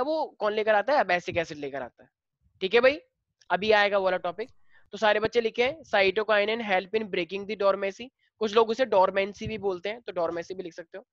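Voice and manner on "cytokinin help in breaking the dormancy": each word spaced out slowly for writing; slow classroom dictation pace. Shown as a demonstration. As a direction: read it slowly so the class can copy.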